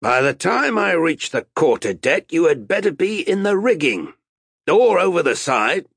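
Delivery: loud, high threatening harangue; stern captain's orders. A narrator's reading. Captain facing mutinous sailors, loud threatening orders. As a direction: lay down the law to the crew.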